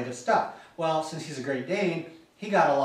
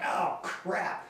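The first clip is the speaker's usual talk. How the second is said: dismayed whisper; 4 semitones higher, 4 dB quieter than usual. Retold or imitated. Hearing dog about to vomit.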